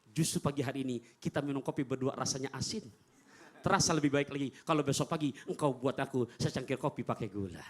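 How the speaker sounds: low, soft, kind reply; gentle reassurance. Retold or imitated. Prophet reassuring Aisyah, soft and low. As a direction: reassure her softly. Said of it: "Apa kata Rasulullah?".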